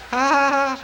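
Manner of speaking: laughing. Real, not acted. Laughs at own joke.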